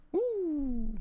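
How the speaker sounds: high, loud whoop of triumph; excited cheer. Real, not acted. Learner celebrating finishing the verb drill, loud high whoop. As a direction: cheer after nailing the drill. Celebrating getting the conjugations right.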